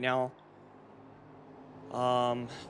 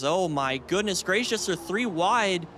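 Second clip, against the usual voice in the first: excited; 5 semitones higher than usual. Real, not acted. Cars suddenly three wide.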